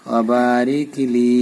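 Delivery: ওয়াবারিক লি slowly, long "baa" and long "li"; one-alif stretch. Shown as a demonstration. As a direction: hold the vowels in ওয়াবারিক লি. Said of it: "এখানে এক আলিফ টান". (ওয়াবারিক লি, টেনে ধীরে)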